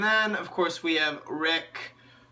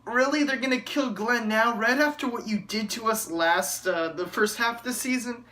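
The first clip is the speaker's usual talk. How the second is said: higher, incredulous protest at the show; outraged viewer questioning the writers; indignant disbelief; 5 semitones higher than usual. Retold or imitated. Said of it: "you're like".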